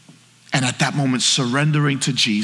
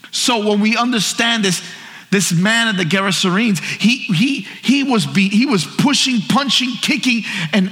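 impassioned preaching; 6 semitones higher than usual. Acted. Preaches at full force.

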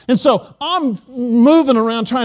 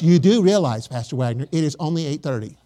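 dry correction; 4 semitones lower than usual. Retold or imitated. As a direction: gently point out the obvious, unimpressed. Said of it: "that's how he talks to me".

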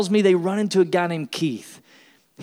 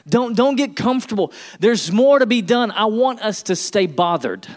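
urgent push; 4 semitones higher, 3 dB louder than usual. Real, not acted. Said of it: "urging congregation".

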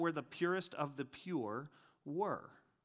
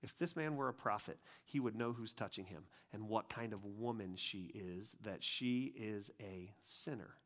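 quiet, low, softer musing Pharisee; Pharisee to himself; 9 semitones lower, 10 dB quieter than usual. Retold or imitated. Pharisee judging the weeping woman to himself, quietly. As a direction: mutter it under his breath, disdainful. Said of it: "he said to himself".

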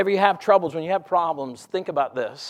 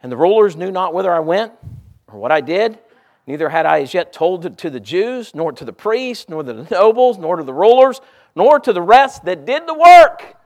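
building scripture reading; 3 semitones higher, 7 dB louder than usual. Acted. Preacher reads Nehemiah to the church, building to a loud climax. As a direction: build each "nor to" up to a peak.

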